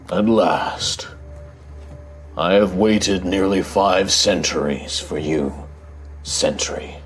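slow, low rumbling guardian voice; deep rumbling voice. Acted. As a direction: speak like an ancient stone giant. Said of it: "this deep rumbling voice".

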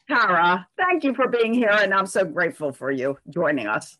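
dull, muffled microphone sound. Real, not acted. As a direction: voice through a muffled mic. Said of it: "I apologize in advance for my muffled microphone".

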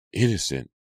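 shrill indignant repeat; indignant cry. Acted. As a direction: throw the word back in disbelief. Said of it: "Hannah cried shrilly".

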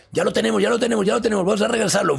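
very high, loud, rapid-fire chant; imitating frantic rescuers hauling someone back; urgent rescuer voices. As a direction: call out excitedly like a team reviving someone. Voicing rescuers bringing him back.

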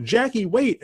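lightly acted plea to stop; retold calling out. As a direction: imitate someone calling after a runaway. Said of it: "do the same joke over and over".

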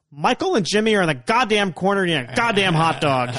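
loud, high exasperated outburst; hammed-up irate yelling; imitated angry dad. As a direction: rant like a fed-up father on the phone. Angry father yelling into phone.

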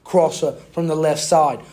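British football commentary; British accent. Acted. Podcaster replays the match for co-host, mock British commentary accent. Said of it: "I'll speak in a British accent".

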